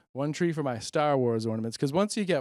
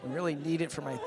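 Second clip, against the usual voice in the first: laughing while pleading; slower than usual. Retold or imitated. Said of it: "Then I'm like".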